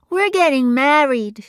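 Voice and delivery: high, loud, eager announcement; Phoebe's voice. A narrator's reading. Phoebe announcing the marriage to her mother, high and eager. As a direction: burst out with the news.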